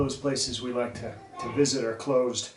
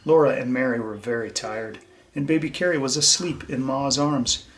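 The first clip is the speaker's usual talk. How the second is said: put-on lively read-aloud for young listeners; bright, gentle storyteller voice; story reading; 3 dB louder than usual. A narrator's reading. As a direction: read it to the class like a picture book. Reads storybook to children.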